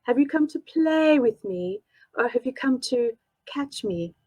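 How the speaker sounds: slow, lilting seductive tease; lightly sultry unseen monster. Acted. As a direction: draw the words out like a purring predator. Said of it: "seductive and sultry".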